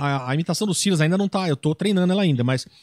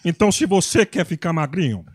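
Silas Malafaia impression; 6 semitones lower than usual. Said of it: "você puxou o Silas Malafaia".

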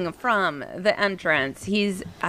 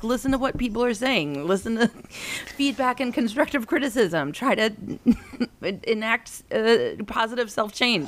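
higher-pitched lecture breaking into laughter; amused lecturing; 5 semitones higher than usual. Retold or imitated. Mother lecturing son on feedback, laughing at herself. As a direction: lecture pompously, cracking up midway.

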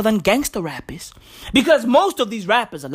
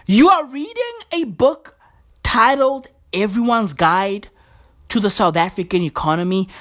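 incredulous. Real, not acted. Mocking the minister's tweet.

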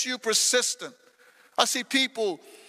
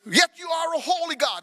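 rising to a raised shout on holy God; psalmist's lament; 3 semitones higher than usual. Acted. Preacher voicing David, crying out yet praising God. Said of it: "He says".

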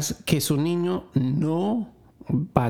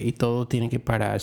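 usual speaking voice

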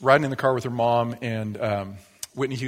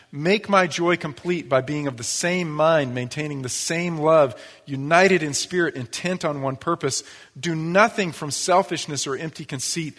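measured, earnest Bible reading; scripture reading; 2 semitones higher than usual. Acted. Reads Paul's letter aloud.

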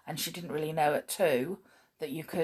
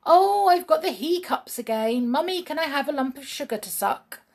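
put-on little girl voice; 7 semitones higher, 4 dB louder than usual. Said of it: "Sheila was always saying".

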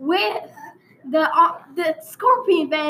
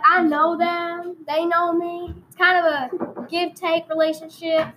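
hammed-up rural Texas storyteller; country Texan accent, played for laughs; put-on Texan accent. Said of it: "I'm gonna change accents for a while".

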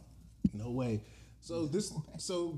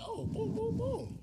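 squeaky mock voice; slower than usual. Mimicking the couple vibing.

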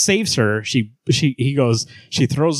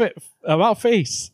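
mock drill sergeant bark, pitched higher; hammed-up military order; army call; 9 semitones higher than usual. Superman calling out his old army buddies, mock drill-sergeant bark. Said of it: "and he's like".

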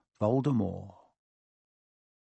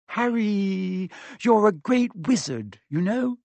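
tearful; 8 semitones higher, slower than usual. A narrator's reading. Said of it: "Hermione's lip trembled".

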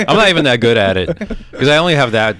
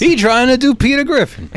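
very high mock Black American accent; put-on Black voice; 12 semitones higher than usual. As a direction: comment in a high, exaggerated African American accent. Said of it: "too much black guy voice".

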